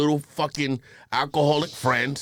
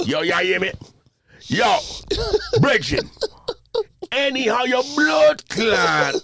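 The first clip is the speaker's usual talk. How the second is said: loud, high Jamaican fight threats; mock a worked-up Jamaican squaring up; aggressive Jamaican accent; 7 semitones higher, 3 dB louder than usual. Imitating Jamaicans who never fight, aggressive Jamaican accent. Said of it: "I've never seen a Jamaican physically fight. You know what I see?".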